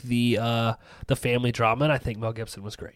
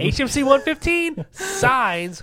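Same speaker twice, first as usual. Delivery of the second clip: announcer voice; 13 semitones higher, 4 dB louder, slower than usual. Acted. Announcing the episode.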